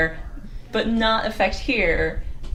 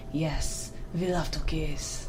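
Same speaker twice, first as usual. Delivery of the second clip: put-on a soft, lightly done Italian accent, lower and slower; 5 semitones lower, 10 dB quieter, slower than usual. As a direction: murmur it as a passionate Italian, badly faked. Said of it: "the passionate Italian's like".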